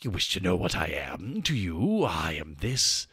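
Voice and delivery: the actual guy. Retold or imitated. Dark being answering who he is, low and menacing. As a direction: drop way down and let it loom from the shadows. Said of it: "I can do the actual guy".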